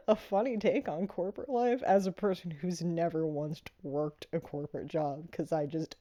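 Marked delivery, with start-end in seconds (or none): 0.1-1.8 laughing through the words; amused, laughing delivery. Retold or imitated. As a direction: giggle while quoting yourself. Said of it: "And I was like".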